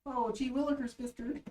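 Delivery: put-on wholesome 1950s kid. Mock innocent kid exclamation.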